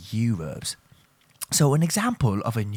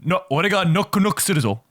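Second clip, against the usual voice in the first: playful shout; 8 semitones higher, 5 dB louder, much faster than usual. Pretend. Jokey Japanese version of quote.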